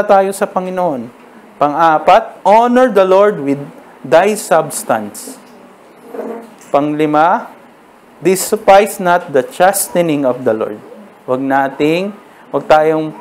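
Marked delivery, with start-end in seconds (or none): 2.4-5.4 scripture reading. Acted. Reads the verse. 8.2-10.8 scripture reading. Acted. Reads the verse.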